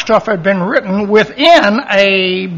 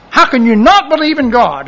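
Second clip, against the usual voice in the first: raised-pitch mock incredulity; imitating incredulous coworker; 4 semitones higher than usual. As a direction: lightly imitate a coworker's pet-peeve rant. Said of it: "I work with a guy".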